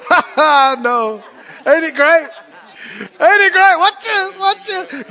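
loud, high, laughing delight; God laughing with glee. Retold or imitated. God gleefully showing off the overflow.

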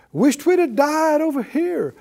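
high, mock whining Israelites; hammed-up grumbling at Moses; whining complaint. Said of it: "and they said".

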